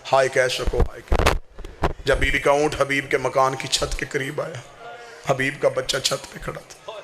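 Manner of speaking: mournful preaching, telling Zainab's story to mourners; majlis recital. Acted. Zakir recounting Karbala grief to mourners, mournful preaching.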